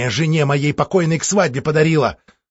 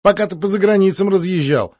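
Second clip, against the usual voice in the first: forced joking; 5 semitones higher, 4 dB louder than usual. Acted. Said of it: "постарался пошутить".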